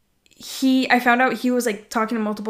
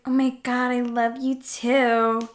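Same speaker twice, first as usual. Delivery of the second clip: slow, drawn-out mock swoon; lovestruck; slower than usual. Telling a new boyfriend after a week, slow swoon. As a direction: stretch it out, lightly lovestruck. Retelling her early love declaration.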